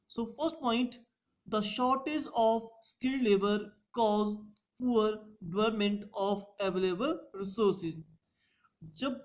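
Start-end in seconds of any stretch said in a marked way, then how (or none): 1.5-8.0 drawn out with pauses between phrases for notes; slow dictation. Shown as a demonstration. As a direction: read the point slowly for students to copy. Teacher dictates a point slowly. (धीमे-धीमे notes लिखवाना)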